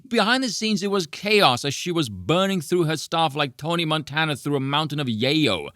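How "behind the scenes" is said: "Behind the scenes" echoed with a scoffing laugh, pitched higher; a scornful laughing repeat of "Behind the scenes"; mocking laugh. Real, not acted. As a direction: laugh the phrase "Behind the scenes" back at them.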